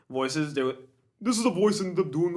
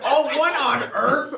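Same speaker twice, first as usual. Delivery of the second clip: high, loud, slow words through laughter; stunned and cracking up at a friend; laughing disbelief; 10 semitones higher, 6 dB louder, slower than usual. Retold or imitated. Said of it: "and I'm like".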